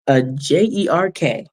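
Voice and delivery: slow, letter-by-letter spelling; spelled out nicely. Real, not acted. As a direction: spell the insult out politely. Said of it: "I'm gonna put it in nicely".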